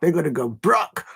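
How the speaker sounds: amateur South London patois; attempted patois accent. Streamer joking about a club's spending, attempted patois. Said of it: "I can't do a patois accent".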